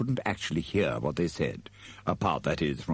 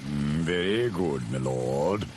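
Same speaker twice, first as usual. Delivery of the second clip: slow, lightly voiced butler; drawn out and sinking; deferential servant; 2 semitones lower, slower than usual. Igor humouring his master, slow and deferential. Igor answers, secretly scheming.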